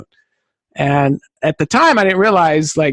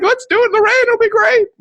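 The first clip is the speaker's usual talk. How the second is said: much higher eager call; excited; faster than usual. Retold or imitated. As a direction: cheer the rainy shoot on. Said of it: "So we're like".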